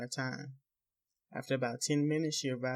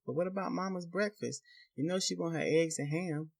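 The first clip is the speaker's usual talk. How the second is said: timid and higher; trembling softly; 5 semitones higher than usual. Acted. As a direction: ask softly, afraid of him. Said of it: "Trembling, she softly asks".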